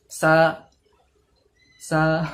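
সা with the tongue pulled back inside, nearly a Bengali s; wrong tha. Shown as a demonstration. Teacher demonstrating the common error, সা with the tongue drawn in. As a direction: show the mistake, সা with the tongue drawn in. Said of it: "অনেকজন এমনিও করে".

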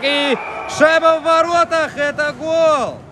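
excited hockey goal call. Real, not acted.

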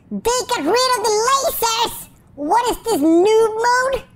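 high, indignant disbelief; incredulous outburst. Real, not acted. Player finding the lasers gone, high incredulous protest. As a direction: exclaim it high, scandalised by the change.

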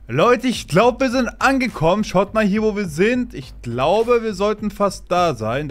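high loud thrilled announcement; bursting with excitement to arrive; excited. Real, not acted.

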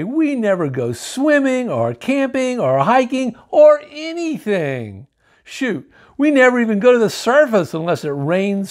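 put-on a kid complaining bitterly; little worm ranting about his life; mad rant. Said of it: "just plain mad".

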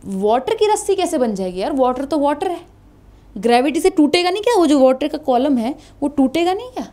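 puzzled student's question; student asking. Pretend. Teacher imitating a puzzled student asking. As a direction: voice a doubtful pupil asking ma'am. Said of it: "अब तुम कहोगे".

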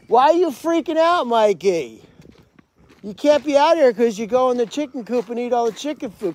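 high, loud scolding pet voice. Real, not acted. Owner hushing her barking pet at night, high scold. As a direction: shush the noisy animal sharply.

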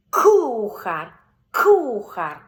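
Кухар loud, crisp К at the start; голосно, чітке К; loud clear К. Shown as a demonstration. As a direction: model Кухар loudly for the child. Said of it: "Тобто різні варіанти".

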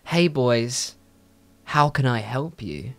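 a light mock Spanish accent. Spanish girl greets two boys at the counter, light Spanish accent. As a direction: imitate her Spanish-accented English. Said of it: "very nice English Spanish accent".

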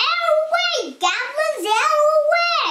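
high, urgent call to clear the way; bossy high-pitched road shout; hooting warning. A narrator's reading. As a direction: call out as if driving straight at them. Doll hoots at goblins in road.

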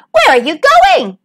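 put-on high-pitched old-pig call; theatrical, high inquisitive cry. A narrator's reading. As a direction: ask in a high, hailing voice. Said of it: "she cried".

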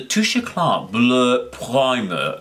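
slow, put-on French accent on the product name. Naming a French primer for her viewers, in a mock French accent. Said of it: "I put up this stupid accent".

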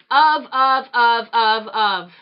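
loud, punched repeated of; all caps yell. Retold or imitated. Reading an angry all-caps subject line aloud, shouted. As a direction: bark each word like it's typed in capitals. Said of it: "in all caps".

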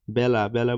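teacher models বেলা with an open "ya" vowel, as byala; teacher says বেলা with its e opened to "ae"; open e sound. Shown as a demonstration. Teacher showing students the ae vowel, open pronunciation of বেলা. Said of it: "অ্যা এর মতো".

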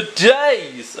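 slow, drawn-out days in a British accent, mock rough street voice; lightly voiced homeless guy in a British accent, slow. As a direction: stretch days out slowly in the British accent like a rough bloke under a bridge. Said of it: "gonna stop saying days like I'm some weird ... homeless guy".

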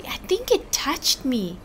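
hushed, like something just brushed you; creeped-out whisper. Real, not acted. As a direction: whisper it, spooked and grossed out.

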